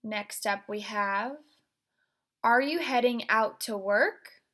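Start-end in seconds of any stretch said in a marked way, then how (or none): 2.4-4.4 intense delivery. Shown as a demonstration. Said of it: "using that vocal intensity".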